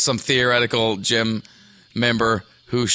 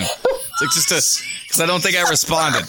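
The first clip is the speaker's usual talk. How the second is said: laughing tears; 5 semitones higher than usual. Real, not acted. Laughing till crying.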